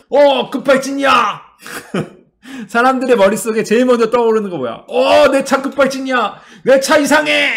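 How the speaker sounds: high, loud panicked yell; panicked shout. Retold or imitated. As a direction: shout in sudden alarm. Mocking Korean panicked driver.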